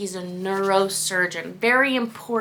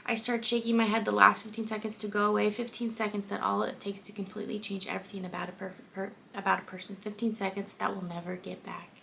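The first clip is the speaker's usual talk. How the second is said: subdued reading, sinking softer; story narration; 5 dB quieter than usual. A narrator's reading. Reader narrating fifteen seconds that change everything, subdued story narration. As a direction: read it quietly, letting it die away. Reads the book aloud.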